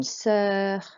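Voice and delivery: "sœur" slowly with a rounded uh vowel; slow French "sœur", lips rounded on the vowel. Shown as a demonstration. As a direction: draw out the œ in "sœur". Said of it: "that makes an E sound".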